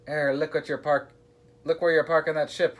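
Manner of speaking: high, loud indignant roar. A narrator's reading. Captain telling off his wife's parking, roaring. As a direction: roar it at a careless driver. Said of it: "roared Abdul".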